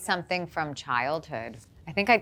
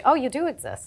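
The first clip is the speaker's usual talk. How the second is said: dismayed surprise; 8 semitones higher, 4 dB louder than usual. Pretend. Imagined words on reaching hell.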